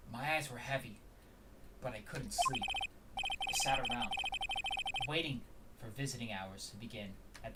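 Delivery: low, soft game narration; story narration. Acted. Weary lawyer narrating his wait to visit Maya, low narration. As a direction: read it low and subdued, with pauses.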